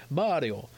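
MARIO drawn out slowly with an Italian tapped r; Italian pronunciation. Shown as a demonstration. Host copying how Italians say it, Italian pronunciation. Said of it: "They say Mario".

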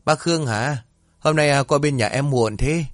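high, eager hostess welcome; cheery greeting. A narrator's reading. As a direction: greet a regular customer eagerly. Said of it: "Mụ Yên chủ quán đi ra hồ hởi".

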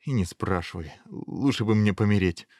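understated woebegone complaint; miserable prince. Acted. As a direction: give up in self-pity. Weeping prince despairs.

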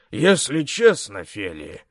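slow, smirking gruff voice; smirking big man. Acted. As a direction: drawl it with a smirk. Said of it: "хмыкнул Ригл". (с усмешкой, басовито)

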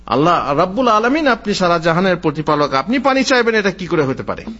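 mildly acted amazement; a touch of bewildered disbelief; astonished servant. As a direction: question it in wonder, pitch lifting then settling. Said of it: "বান্দা অবাক হয়ে বলল".

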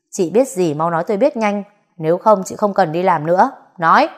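harsh threat ending in a loud barked Nói; bully the maid into talking; snapping at her. Acted. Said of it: "cậu nạt chị".

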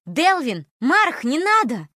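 high, loud, desperate cry; shouting plea. Acted. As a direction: cry out to stop them. Holly cries out to stop.

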